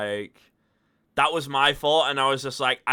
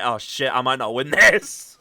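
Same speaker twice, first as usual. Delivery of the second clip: louder, mock-frustrated outburst; 6 dB louder than usual. Player imitating a beaten opponent who fears losing, frustrated. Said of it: "he was just frustrated".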